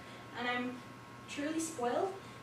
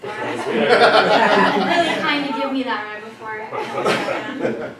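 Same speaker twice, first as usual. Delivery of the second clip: talking with gum in mouth; words around a wad of gum; chewing gum; 16 dB louder than usual. Real, not acted. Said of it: "let me say this with gum in my mouth".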